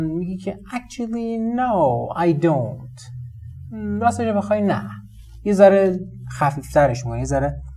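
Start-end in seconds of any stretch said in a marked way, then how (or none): 0.7-3.0 polite decline. Shown as a demonstration. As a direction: let the actually soften the no. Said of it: "بیایم چه جوری جواب بدیم".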